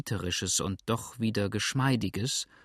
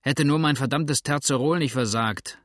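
hissed; 3 semitones higher, 4 dB louder than usual. Acted. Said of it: "zischte der andere".

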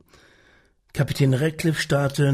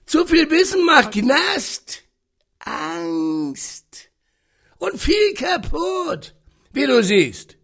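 put-on rough, booming old captain; growling sea captain; 13 semitones higher, slower than usual. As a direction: growl it from the chair. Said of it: "Seine knurrige Stimme".

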